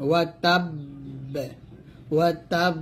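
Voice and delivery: "তাব" held on a doubled b, then released with a bounce; heavy qalqalah. Shown as a demonstration. Teacher shows big qalqalah, "তাব" with held, bouncing b. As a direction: pause on the closed b of "তাব", then pop it open. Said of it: "এটাকে বড় কলকলা বলে".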